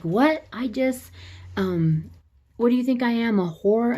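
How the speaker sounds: high-pitched, offended questioning; mock indignation. Woman offered money by her date, mock-indignant and high.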